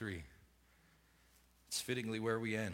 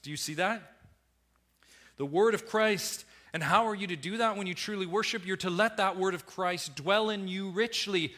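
raised, higher preaching voice driving each point; fervent pulpit exhortation building to God; impassioned preaching; 8 semitones higher, 6 dB louder than usual. Acted. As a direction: press the truth on the congregation. Preacher stressing the word of Christ.

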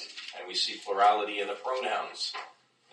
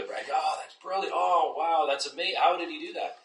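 amazed moviegoer; 9 semitones higher than usual. Retold or imitated. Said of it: "everyone's like".

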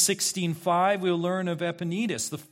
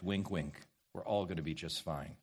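mock hush; 10 semitones lower, 10 dB quieter than usual. Mocking comfortable universalist promise.

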